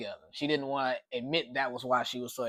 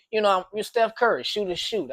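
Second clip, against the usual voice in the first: hyped aside; 7 semitones higher, 5 dB louder than usual. Real, not acted. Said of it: "hyped sports aside".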